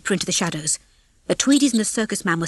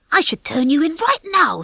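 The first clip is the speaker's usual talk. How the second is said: indignant; 8 semitones higher, 3 dB louder than usual. Acted. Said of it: "said Ginger indignantly".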